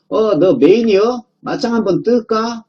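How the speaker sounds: high-pitched, drawn-out mock challenge; cocky challenger. The conclusion challenging the main idea to a fight, cocky and high-pitched. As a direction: play a comic upstart picking a fight. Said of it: "한 놈이 이렇게 이야기를 합니다".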